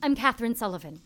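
normal talking voice

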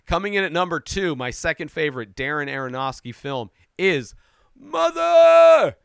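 loud, fast countdown announcement; excited reveal. Real, not acted. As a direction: build up the big reveal. Countdown reveal of number two.

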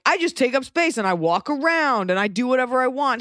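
a touch of breezy male entitlement; entitled man. Acted. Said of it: "especially men are used to, like".

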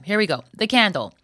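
ordinary talk

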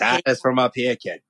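put-on light Boston accent. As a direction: drop the r's, Boston style. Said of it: "when I do the accent".

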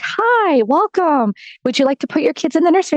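high, bright welcome, then fast; cheery greeter. Retold or imitated. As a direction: play an eager church greeter. Church greeter welcomes her.

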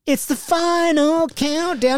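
slow, high, grand announcement; dramatic announcer. Pretend. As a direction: announce it like a big finale. Announcing the list end.

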